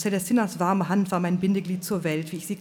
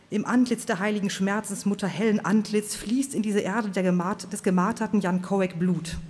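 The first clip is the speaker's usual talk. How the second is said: fiery preacher; 3 semitones higher than usual. Acted. Preacher Swan's fiery speech.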